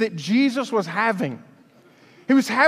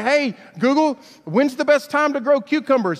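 asking the phone; 4 semitones higher than usual. Shown as a demonstration.

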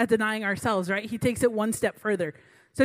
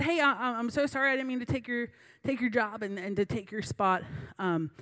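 softer, an earnest apology; 3 semitones lower, 4 dB quieter than usual. Retold or imitated. Young leader apologizing to her coworker, soft and sincere. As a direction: say sorry softly and sincerely. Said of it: "she actually apologized".

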